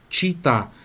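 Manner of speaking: normal talking voice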